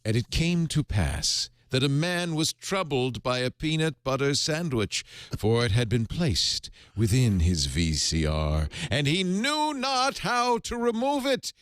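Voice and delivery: solemn, slowed scripture reading; mock King James reading. Host reading an AI Bible verse to cohosts, solemn and grand. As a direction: intone it like the Bible. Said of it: "so I'll do the accent of God".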